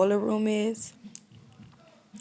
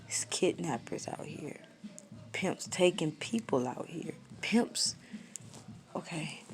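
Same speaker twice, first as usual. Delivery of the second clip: hushed realization; 6 dB quieter, slower than usual. Retold or imitated. Realizing the danger, inner thought.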